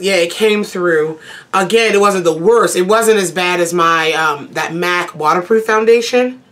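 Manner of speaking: talking between sips of tea; sipping hot tea. Real, not acted. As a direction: speak around a sip of tea. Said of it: "Sorry, sipping tea".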